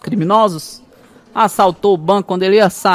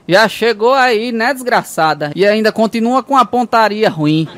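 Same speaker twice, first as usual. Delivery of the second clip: mock shout; 3 semitones higher, slower than usual.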